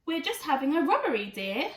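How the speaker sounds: put-on fast, chirpy old gran; cheeky granny. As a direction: rattle it off sweetly like a granny. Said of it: "said Criminal Gran".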